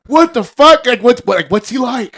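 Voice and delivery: loud, high, stumbling questions; mock astonished excitement. Imitating husband curious about wife's ex, excited astonishment. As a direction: blurt the questions over each other, hammed-up.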